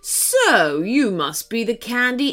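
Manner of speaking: theatrical monster, lingering on the end; villain dragon. Acted. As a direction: confront the captive with relish. Dragon confronts the candy elf.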